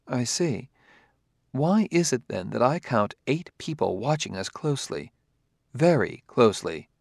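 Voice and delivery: lightly voiced robot, soft and precise; a hint of an android quietly probing; discreetly pointing it out as a formal robot; polite robot. Robot reports being watched.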